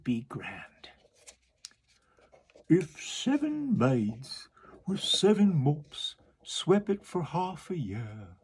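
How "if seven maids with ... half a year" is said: slow walrus voice dropping to a whisper; the walrus musing, half whispered. Acted. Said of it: "the walrus said".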